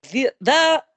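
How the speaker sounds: loud, high announcer-like outburst; excited pop. Real, not acted. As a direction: shout it out like a popping fan. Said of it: "I always pop for that".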